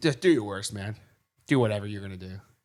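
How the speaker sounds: ordinary dude talking easily, casual, rattled off. Retelling threatening a man with a gun, the speaker imitates his reply like a regular dude. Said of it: "He just sounded like a regular dude".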